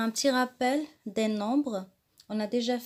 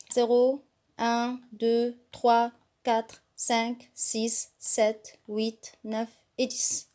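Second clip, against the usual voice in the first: leading a choral count; much slower than usual. Shown as a demonstration. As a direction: clear counting for pupils to follow. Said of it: "on lit ensemble". (compter ensemble avec la classe, clairement)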